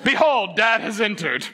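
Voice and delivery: hammed-up herald voice; grand announcement. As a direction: proclaim Dad's arrival like royalty. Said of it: "Please start doing that, family".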